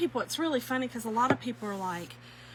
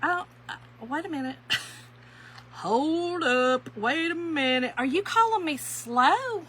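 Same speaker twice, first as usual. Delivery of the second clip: mock indignant; 5 semitones higher than usual. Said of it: "And I was like".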